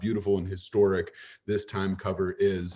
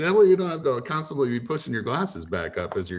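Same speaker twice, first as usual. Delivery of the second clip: comic scolding voice; imitating drummer; 2 semitones higher than usual. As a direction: play a fed-up friend nagging him. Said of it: "It's like".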